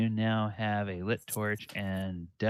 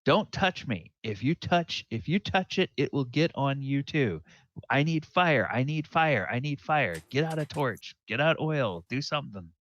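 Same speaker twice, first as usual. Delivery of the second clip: higher, louder, panicky pleading; acted desperation, pitched up and insistent; urgent warning; 6 semitones higher, 5 dB louder than usual. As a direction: warn them off, then beg for help. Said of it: "and says".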